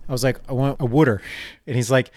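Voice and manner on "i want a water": "water" said as "wooder"; Delco pronunciation. Retold or imitated. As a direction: repeat the order, "water" with an oo as in wood. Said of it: "how many times I gotta repeat myself".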